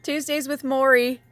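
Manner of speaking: high, loud cheering thanks; shouted joyful whoo, slowing down; ecstatic. Real, not acted. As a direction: whoop to the spirits, way up. Thrilled at the card drawn.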